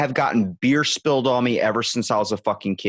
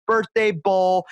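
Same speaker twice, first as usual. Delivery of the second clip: higher, triumphant reveal; proud rock singer; 8 semitones higher, 3 dB louder, much slower than usual. Retold or imitated. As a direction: present it like a prize. Singer offers the bowl.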